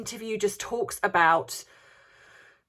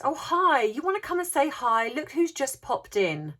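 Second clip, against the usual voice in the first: higher-pitched mimicked greeting; Meghan; 6 semitones higher than usual. Podcast host greeting Harry as he pops in, imitated, higher-pitched. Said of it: "And so Meghan then says".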